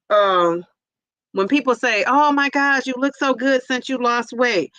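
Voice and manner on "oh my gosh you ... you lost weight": gushing compliment. Retold or imitated. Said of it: "people take that as".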